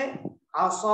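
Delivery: असा with a long, rounded 'aw' ending; full, thick alif. Shown as a demonstration. Teacher illustrating thick alif, असा with long heavy 'aw'. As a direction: hold a heavy 'saw' in असा. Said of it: "तो पुर होगा".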